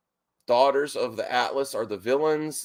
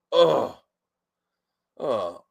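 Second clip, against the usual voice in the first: short exasperated groans, the second sinking; flustered groan. Real, not acted. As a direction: groan as you hurry off. Flustered, rushing to get on screen.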